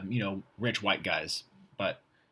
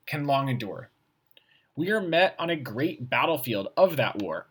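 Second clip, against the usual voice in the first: put-on a deliberate, slightly louder read of an old speech; reading aloud; 4 dB louder than usual. Shown as a demonstration. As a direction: read it out like a formal text.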